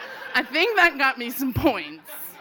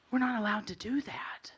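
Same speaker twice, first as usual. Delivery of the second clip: timid objection; 6 dB quieter than usual. Retold or imitated. Teens timidly refuse the blunt.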